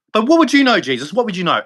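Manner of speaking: sarcastic taunt. Retold or imitated. Repeated mocking taunt.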